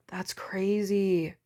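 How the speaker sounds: breathy, slow, amazed whisper; awed whisper. Real, not acted. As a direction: whisper it in awe.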